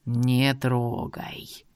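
low, very slow creaky rasp. A narrator's reading. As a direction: creak it out like a phantom. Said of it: "скрипучим голосом произнёс жуткий силуэт".

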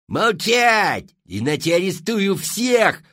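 high, loud angry bark. A narrator's reading. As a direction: bark the order to silence. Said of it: "рявкнул шеф полиции".

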